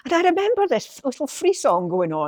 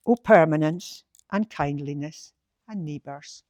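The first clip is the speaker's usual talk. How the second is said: poem recital; 3 semitones lower than usual. Acted. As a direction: read it again with fond care. Reads the poem again.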